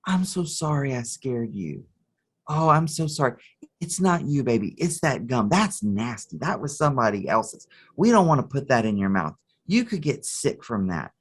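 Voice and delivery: gently reassuring, apologetic mom; mild tender reassurance; comforting mother. Retold or imitated. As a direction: soothe a frightened child, lightly acted. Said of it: "she's comforting".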